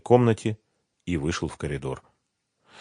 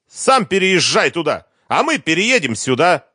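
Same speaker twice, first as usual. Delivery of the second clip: high, loud spiteful shout; angry demand; 11 semitones higher, 6 dB louder than usual. A narrator's reading. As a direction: fling it back at him loudly.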